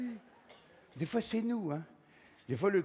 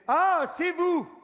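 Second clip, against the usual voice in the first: slow, much higher mock hostess greeting; gushing hostess; 10 semitones higher, 6 dB louder, much slower than usual. Hostess opening the door to guests, slow, high gushing greeting. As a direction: stretch it out like a delighted hostess.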